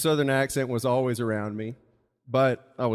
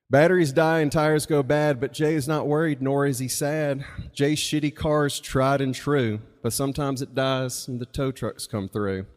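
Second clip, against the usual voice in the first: louder, rhythmic read-aloud; rhyming story reading; 4 dB louder than usual. Acted. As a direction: recite the verse with a steady bounce. Reads own rhyming story aloud.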